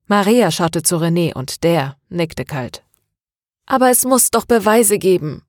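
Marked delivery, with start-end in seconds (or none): 3.7-5.4 pleading. Acted. Maria begs her father for proof, pleading. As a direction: plead for some hope of proof. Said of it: "flehte Maria".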